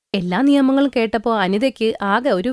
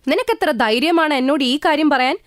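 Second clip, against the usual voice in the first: higher, indignant mother-in-law; angry mother-in-law; 5 semitones higher than usual. Acted. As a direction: scold her for daring to ask. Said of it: "ഭയങ്കര ദേഷ്യമായി".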